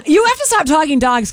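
talking through laughter; laughing. Real, not acted. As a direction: plead while still laughing. Laughing plea.

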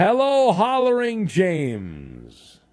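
slow, stretched show-host introduction; big, lengthened caller intro; drawn-out announcer greeting. Real, not acted. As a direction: roll out the name like a ring announcer.

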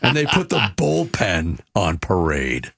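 low dramatic announcer growl; Wolf voice. Pretend. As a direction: rumble it out, wolf-style. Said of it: "That didn't call for the Wolf voice".

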